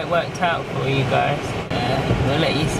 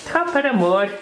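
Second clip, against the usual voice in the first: Irish accent attempt; 4 semitones higher than usual. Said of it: "I can't do Irish. I'll try".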